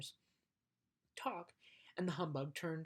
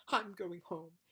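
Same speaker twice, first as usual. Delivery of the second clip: mock tearful huff; 2 semitones higher, 5 dB louder, slower than usual. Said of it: "crying hysterically".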